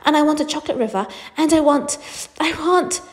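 put-on high, insistent child's demands; greedy, high-pitched demanding. Spoilt child listing demands.

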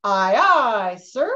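a hint of a crisp sailor answering; sailor's reply. Shown as a demonstration. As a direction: snap back a sailor's reply. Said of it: "he will immediately say".

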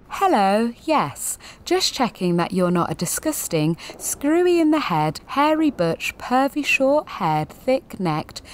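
a light send-up of a polite bureaucrat; mock council official. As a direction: read the insults like a cheery receptionist. Council form voiced sarcastically.

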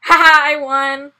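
loud, high, triumphant. Real, not acted. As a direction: gloat over winning. Winning the race.

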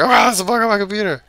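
high, loud, fast startled voice; mock surprise. Gamer recalls mistaking a game sprite, mock startled. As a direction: play your own past self jumping at a glitch. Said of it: "I was like".

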